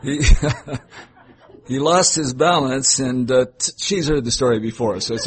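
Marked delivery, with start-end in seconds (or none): 0.0-3.0 laughing. Real, not acted. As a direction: read it through real laughter. Reader cracks up, restarts line.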